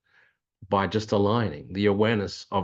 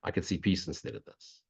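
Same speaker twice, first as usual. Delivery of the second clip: softer, as if hearing it spoken inside you; quiet inner voice; 6 dB quieter than usual. Shown as a demonstration. To listeners, voicing the inner dialogue softly. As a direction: let the words arrive gently, softer. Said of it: "You hear the dialogue start".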